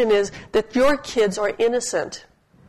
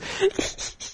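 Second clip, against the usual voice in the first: breathless giggle; 7 dB quieter than usual. Retold or imitated. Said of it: "She's laughing so hard".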